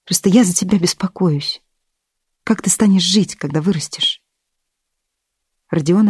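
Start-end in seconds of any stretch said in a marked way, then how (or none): 0.0-4.2 soft, half-whispered concern; quiet. Acted. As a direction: whisper it gently with worry. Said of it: "сказала мачеха негромко".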